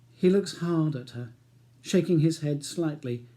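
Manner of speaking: measured audiobook narration; calm novel reading voice; story narration. A narrator's reading. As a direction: read the story steadily.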